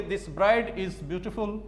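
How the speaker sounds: drawn out, word by word; slow dictation. Shown as a demonstration. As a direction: read it slowly so they can write it down. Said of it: "इस sentence को अगर धीरे-धीरे तोड़ोगे आप".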